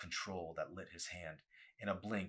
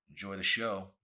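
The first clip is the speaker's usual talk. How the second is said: sarcastic groan; 7 dB louder than usual. Acted. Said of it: "Arson groaned".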